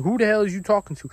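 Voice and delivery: retold high-pitched disbelief; confused indignation. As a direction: imitate being baffled and affronted. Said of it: "I was confused".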